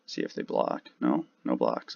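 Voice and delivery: mumbled over a coffee cup; drinking coffee. Real, not acted. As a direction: talk between sips of coffee. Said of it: "sorry if you hear slurping sounds".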